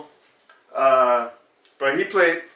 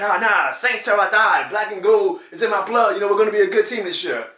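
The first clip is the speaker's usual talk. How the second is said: higher, hammed-up fan bravado; mock die-hard Saints fan; 5 semitones higher than usual. Vlogger mocking die-hard Saints fans, higher mock bravado. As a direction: play the blindly loyal fanatic. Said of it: "die-hard fanatics".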